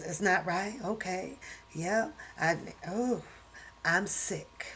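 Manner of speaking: soft, low, breathless reading of the symptoms; faint sick reading. Acted. Acting out the author's illness for viewers, soft and breathless. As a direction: read as if barely holding on. Reads fainting scene quietly.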